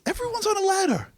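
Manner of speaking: high, shouting rebuke; fired-up rabbi. Retold or imitated. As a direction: shout it like a rabbi shaking you awake. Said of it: "He goes".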